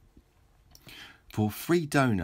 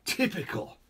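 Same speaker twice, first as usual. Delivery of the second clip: dry crowd voice; 7 semitones higher than usual. Acted. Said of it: "said a voice in the crowd".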